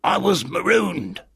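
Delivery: high, slow castaway voice; strange castaway. Acted. Castaway meeting his first Christian in three years, strange high voice. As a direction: draw it out high and odd. Castaway answers what happened.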